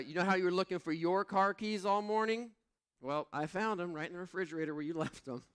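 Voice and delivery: a hint of the wife amused; teasing wife. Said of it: "She said".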